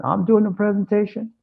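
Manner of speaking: shocked at the news, pitch way up; retold disbelief. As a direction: janitor told to present, high and disbelieving. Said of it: "my heart sunk".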